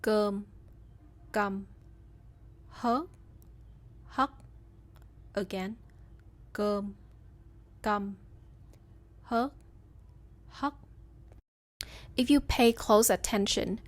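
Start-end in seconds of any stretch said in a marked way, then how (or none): 0.0-10.7 "Cơm" long, "căm" short and abrupt; minimal pairs. Shown as a demonstration. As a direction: contrast long vowels with short, sharp ones. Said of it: "longer and more elongated".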